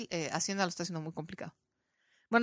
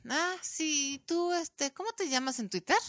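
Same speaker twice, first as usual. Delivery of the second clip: scornful; 7 semitones higher, slower than usual. Retold or imitated. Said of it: "con una actitud tan de desprecio".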